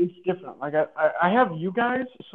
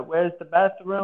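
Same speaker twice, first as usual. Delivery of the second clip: fake Spanish accent. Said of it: "That's legitimately how you would talk".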